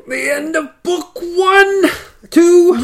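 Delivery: high, slow, hammed-up announcement; mock dramatic announcer. Co-host mock-announces the end of the book, hammed-up high voice. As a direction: announce the ending like a trailer voice.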